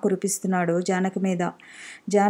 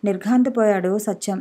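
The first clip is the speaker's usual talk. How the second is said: plain reading voice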